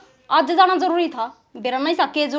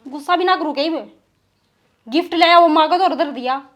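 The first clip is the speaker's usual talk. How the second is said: mildly annoyed wife's retort; थोड़ा गुस्सा. Acted. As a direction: complain to your husband with a touch of anger. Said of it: "इतना गुस्सा ना करया कर". (हल्के गुस्से में शिकायत)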